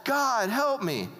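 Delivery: high, rushed mock panic; acted overwhelmed cry for help; David's desperate plea. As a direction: blurt complaints, then drag out the plea. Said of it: "so you got D-, David".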